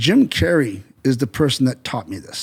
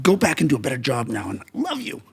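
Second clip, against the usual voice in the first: soft, placating follow-up; nicer; 6 dB quieter than usual. Acted. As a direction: drop to a quiet, conciliatory aside. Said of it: "make it a little bit nicer".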